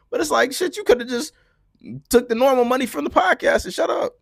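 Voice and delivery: exasperated shout. Real, not acted. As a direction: shout it out, fed up. Ranting that she should've stayed quiet.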